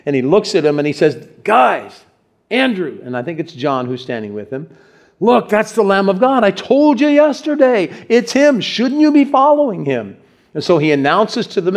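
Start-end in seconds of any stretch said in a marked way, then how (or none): 1.4-10.2 higher-pitched, excited call to friends; urgent calling out. Acted. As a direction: point him out eagerly, voice lifted high. Acts out John pointing out Jesus.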